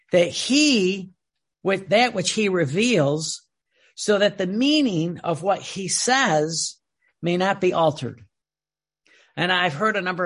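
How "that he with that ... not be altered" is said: slow, measured reading of a sacred text; solemn reading. Acted. Preacher reading the rule to his flock, slow and solemn. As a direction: read each phrase slowly, as scripture.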